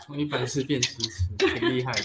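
laughing through the words; stifled giggle while speaking; held-in laugh. Real, not acted. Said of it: "你就不要憋了".

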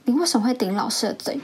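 incredulous mock reproach; shocked teacher. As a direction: imitate a teacher stunned by the model pupil. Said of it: "眼睛真的是快掉下来".

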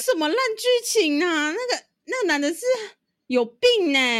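high, fast, laughing through the words; giggling incredulous question; laughing disbelief. Real, not acted. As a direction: crack up in disbelief at the story.

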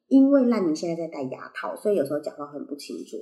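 talking through braces; slightly unclear speech with braces. Real, not acted.

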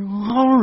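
narrator's mimicked yelp; imitated howl. A narrator's reading. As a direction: let the howl swell inside the narration. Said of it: "同时嗷了一声".

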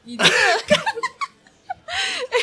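hammed-up sleazy flirting, laughing; creepy flirt act. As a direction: play the greasy pickup guy, giggling through it. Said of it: "现场来模拟一下".

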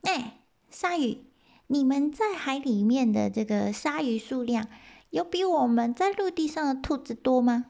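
high, small rabbit voice; little rabbit voice. Acted. Rabbit explains to the eighty gods in a high voice. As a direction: speak up as the tiny rabbit. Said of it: "就跟这个鲨鱼说".

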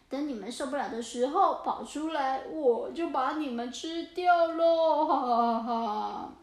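mock-villain grumble to gloating laugh; complain, then gloat; scheming orca. Orca failing to bite the bucket, gloating villain.

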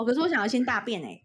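giggling through a clueless husband's line; fast, laughing mock husband; laughing quote.

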